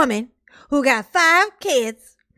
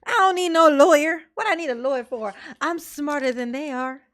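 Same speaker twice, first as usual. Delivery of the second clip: mock cocky Daryl; 3 semitones higher than usual. Vlogger mocks defendant refusing a lawyer, cocky boast. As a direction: brag it like a know-it-all.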